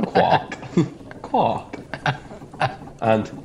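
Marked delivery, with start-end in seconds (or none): 0.1-1.8 Welsh duck accent. Shown as a demonstration. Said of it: "Can we have a demonstration?".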